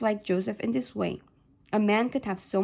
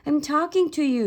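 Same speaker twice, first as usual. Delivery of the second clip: demanding; 6 semitones higher, 4 dB louder than usual. A narrator's reading. Father demands daughter's attention.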